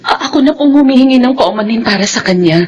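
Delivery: crying, begging the employer; nanny begging her employer, crying, not to fire her; tearful pleading. Acted. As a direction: plead through tears.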